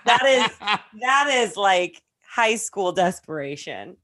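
breathless, still laughing; words squeezed out through laughter; after laughing hard. Real, not acted. Laughing right after the joke.

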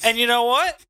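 Mitchy Richie in the ring. Acted. Mitchy Richie answers the Dom on the mic, promo voice. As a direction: address the crowd as a cocky wrestler.

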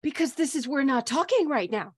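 mild indignant rebuff. Acted. Character rebuffs talk during funeral.

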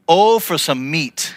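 slow, drawn-out whine; a hint of a pitiful whine; mock whining cry. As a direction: moan it like a hungry complainer. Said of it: "when you cried".

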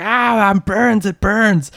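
high, slow, pained elf cry; burned elf. Acted. GM voicing a scalded elf, high pained cry. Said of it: "He's like".

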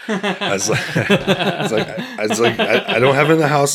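high, loud laughter through the words; laughing. Real, not acted. Man laughing as he tells the cops he has nothing, laughing loudly. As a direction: crack up while telling it.

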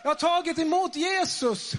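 high-pitched excited cry; retold joyful scream. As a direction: cry it out, imitating her screaming. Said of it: "och bara skrek".

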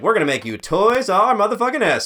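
big excited investor hype; hyped pitch voice. Retold or imitated.

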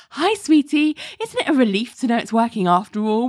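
retold sugary tease with a smile; big smile. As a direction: imitate a teasing caller grinning down the phone. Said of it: "this big smile on her face".

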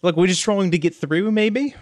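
casual, uncertain character voice; lizardfolk Reese. Acted. Reese explains himself to kobolds, unsure casual accent. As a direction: admit confusion amiably in character.

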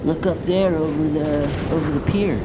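loud laid-back surfer bro; surfer dude. Acted. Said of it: "the surfer voices".

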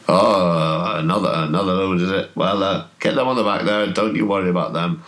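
mildly booming voice, quickening as it goes; Tom Partridge. Acted. Game master voices man overheard loading up outside town, lightly booming. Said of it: "you hear a booming voice".

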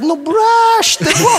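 high, slow, loud shout; exasperated shout. Retold or imitated. The frustrated coach yells the same instruction at Trevor again. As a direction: bellow the order, dragging it out. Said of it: "He's like".

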